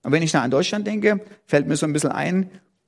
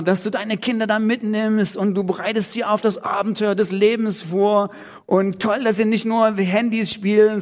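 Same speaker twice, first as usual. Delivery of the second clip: retold warm praise, higher; enthusiastic friend; 4 semitones higher than usual. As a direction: read out a friend's gushing encouragement with a lift. Friend's encouraging message retold.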